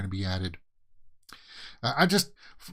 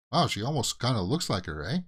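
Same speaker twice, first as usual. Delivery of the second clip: Canadian accent. Real, not acted. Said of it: "There's my Canadian accent".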